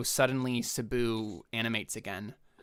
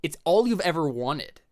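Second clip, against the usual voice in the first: loud, high, laughing gush; laughing exclamation; 9 semitones higher, 13 dB louder than usual. Real, not acted. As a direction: gush over it while laughing.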